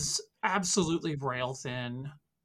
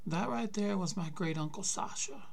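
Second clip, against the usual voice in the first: put-on higher, aged old man's voice; old grandpa voice; 5 semitones higher than usual. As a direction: voice the weary grandfather. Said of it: "he says".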